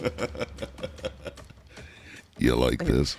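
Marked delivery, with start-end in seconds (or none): 2.4-3.2 deep, put-on seductive voice. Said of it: "doing the Barry White voice".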